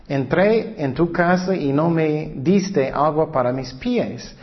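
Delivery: slow, solemn Bible reading; scripture reading. Acted. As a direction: read the verse slowly, weighing each phrase. Reads Luke aloud slowly. (lectura bíblica lenta y solemne)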